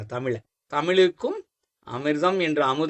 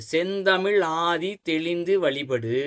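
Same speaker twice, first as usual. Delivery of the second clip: slow, connected recital of a verse line; verse recitation; slower than usual. Shown as a demonstration. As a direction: recite it slowly as a quoted verse. Recites the verse once more. (மெதுவாக செய்யுள் ஒப்பித்தல்)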